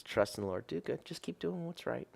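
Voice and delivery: soft recited scripture; quiet scripture quote. Acted. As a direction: let the verse fall gently. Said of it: "it says".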